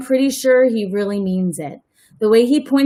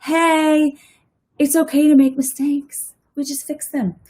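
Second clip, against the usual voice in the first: reassuring teacher; 5 semitones higher than usual. Shown as a demonstration. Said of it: "teacher moment to stop and say".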